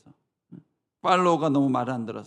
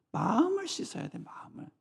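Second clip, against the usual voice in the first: urgent high plea; 11 semitones higher, 4 dB quieter than usual. Acted. Jesus' voice urging.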